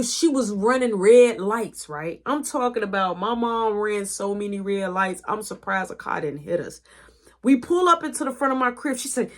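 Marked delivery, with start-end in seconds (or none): 5.3-6.8 soft unvoiced whisper; whispered aside. Real, not acted. Telling listeners about mom's driving, whispered. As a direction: whisper it like a secret.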